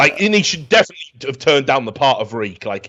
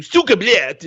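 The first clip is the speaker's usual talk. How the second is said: bad Russian accent; 7 semitones higher than usual. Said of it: "when someone tries to do".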